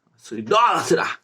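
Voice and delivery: imitating an evangelical accusing the teacher. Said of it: "Vem os evangélicos". (evangélico acusando, voz mais aguda)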